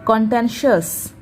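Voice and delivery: कॉन्टेंशियस said as kon-ten-shus, the ti read as sh; careful demo of कॉन्टेंशियस, kon-ten-shus; listen carefully. Shown as a demonstration. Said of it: "ध्यान से सुनिए".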